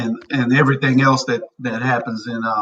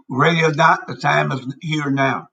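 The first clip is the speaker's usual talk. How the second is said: mouth full. Real, not acted. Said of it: "Y'all excuse me for this ice I got in my mouth".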